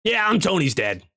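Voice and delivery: rough impression of a famous comedian; Gilbert Gottfried. Stone confirming he is Tony's father, imitating Gottfried. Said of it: "sounds like Gilbert Godfrey".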